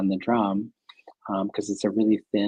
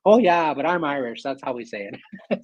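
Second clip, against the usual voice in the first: Fergal's reply; 5 semitones higher than usual. Retold or imitated. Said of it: "he goes".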